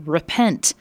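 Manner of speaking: preaching loudly. Acted. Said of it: "he was preaching loudly".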